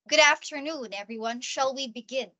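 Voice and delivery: opening line with subtle authority; falling intonation. Shown as a demonstration. Trainer models opening a meeting, falling intonation. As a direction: greet the group and let the tune settle downward. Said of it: "intonation should go down".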